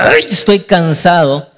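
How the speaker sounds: slow, drawn-out acted weariness; weary exasperation. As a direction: groan the "Ay", then drag the words out. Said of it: "único que Dios diga".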